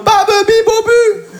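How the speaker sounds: high, slow, exaggerated vowel drill; hammed-up speech-therapy syllables; mock over-articulation. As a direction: blare each syllable high and stretched. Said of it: "J'arriverai en mode".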